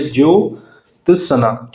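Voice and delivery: "ज्योत्सना" slowly, split into its parts; broken into syllables. Shown as a demonstration. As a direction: sound out "ज्योत्सना" piece by piece for learners. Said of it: "याद रखेंगे".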